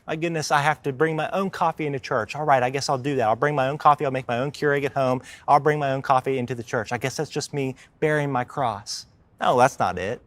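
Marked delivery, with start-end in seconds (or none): 0.1-9.1 mock put-upon whine about coffee; lightly mocking a complainer; whiny complaint. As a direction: play a petty churchgoer sighing over a small chore. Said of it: "I hear sometimes people are like".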